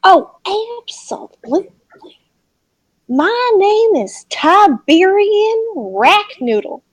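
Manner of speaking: high, slow, grand farmer introduction; Southern farmer. Acted. Farmer introducing himself to adventurers, slow and grand.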